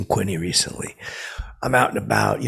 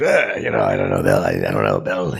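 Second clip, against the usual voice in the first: Quinny impression; 13 semitones lower than usual. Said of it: "That's how Quinny talks".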